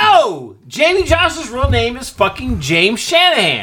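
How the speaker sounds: excited. Real, not acted. Excited discovery shouted across.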